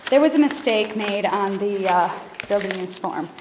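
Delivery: slightly out of breath, still talking. Real, not acted. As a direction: speak a little out of breath from hurrying. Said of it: "out of breath 'cause I'm running down".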